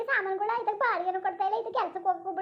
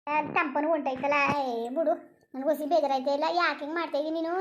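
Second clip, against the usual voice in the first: put-on concerned older man; 4 semitones lower than usual. Plays a different figure.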